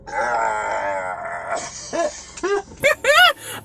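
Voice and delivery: long drawn-out noise breaking into giggles. Retold or imitated. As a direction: act out being out of it, wordlessly. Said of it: "I was like".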